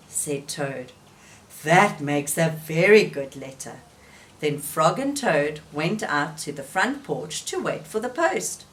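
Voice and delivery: lively read-aloud voice with clear character turns; story reading for children. A narrator's reading. Teacher reading Frog and Toad to children, lively storytelling. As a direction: tell it gently to little listeners.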